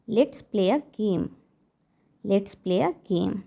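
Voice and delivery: very slow, spaced words; slow model phrase. Shown as a demonstration. Teacher to parents, modelling a phrase very slowly. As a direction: draw each word out for learners. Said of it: "तो आपको English में बोलना है".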